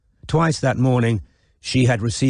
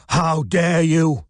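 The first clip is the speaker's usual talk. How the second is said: gasped outrage; 7 semitones higher, much slower than usual. A narrator's reading. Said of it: "gasped Wynne".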